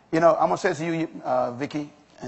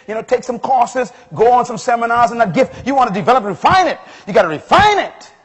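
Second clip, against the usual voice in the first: driving list that builds to a loud peak; preacher working up to a shout; preaching, building; 5 semitones higher, 8 dB louder than usual. Real, not acted. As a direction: pile up the instructions, getting louder.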